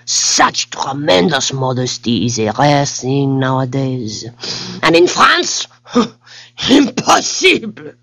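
delighted, high French exclamations; French king. Acted. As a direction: gush like a thrilled French king.

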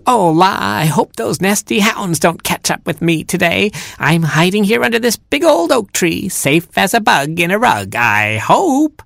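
singsong mock vixen. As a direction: mockingbird faking a fox to lure hounds. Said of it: "in the voice of a vixen".

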